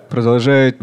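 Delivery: usual speaking voice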